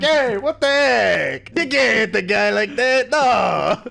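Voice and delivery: high, slow, loud shocked cry; outraged henchman. Acted. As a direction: yell it in shocked protest. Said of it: "It's like".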